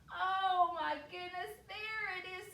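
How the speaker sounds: put-on high, excited little girl; thrilled child's outburst; delighted discovery. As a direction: exclaim high, loud at first. Girl finds her lost shoe.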